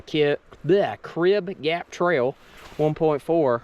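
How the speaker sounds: slow, slurred, with a frozen mouth; stumbling over words, mouth numb from cold. Real, not acted. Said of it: "having a hard time enunciating today 'cause my mouth is frozen".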